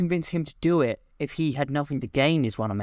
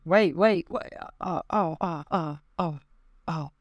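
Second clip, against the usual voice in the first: tag; 4 semitones higher, slower than usual. Acted. Being shot by the officer.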